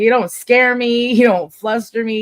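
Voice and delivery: slow, loud mock-defiant taunt. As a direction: lean on each word, daring him. Taunting imagined angry kid.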